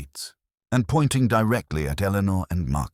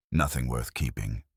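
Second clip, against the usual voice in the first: softer, level and unbothered; evenly; 5 semitones lower, 5 dB quieter than usual. A narrator's reading. Husband brushing off his wife's question, quiet and even. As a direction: let it drop quietly, giving nothing away. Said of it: "I said evenly".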